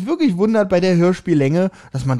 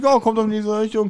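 relaxed, chummy; 4 semitones higher than usual. Retold or imitated. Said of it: "Entspannt, so vertraulich".

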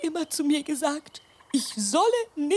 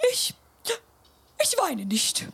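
whispered denial; 5 semitones higher than usual. Acted. Grandma denies crying, caught.

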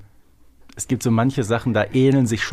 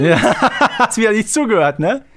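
laughing while teasing, a bit higher and louder; laughing tease; 11 semitones higher, 6 dB louder than usual. Real, not acted. Co-host laughing at his partner for not listening.

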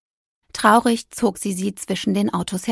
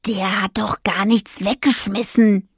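whispered, mewing little cat; mewling cat. Acted. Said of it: "maunzte Zenturo". (Kater maunzt flüsternd)

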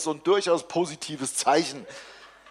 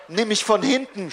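moaning; 6 semitones higher, 3 dB louder than usual. A narrator's reading. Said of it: "stöhnt sie".

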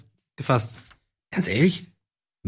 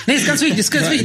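laughing while talking; 8 semitones higher than usual. Real, not acted. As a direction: giggle through the words. Laughing at olive question.

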